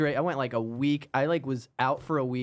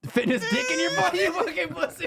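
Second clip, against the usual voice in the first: jock impression; 13 semitones higher than usual. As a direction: do an obnoxious gym bro. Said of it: "your impression of a dick".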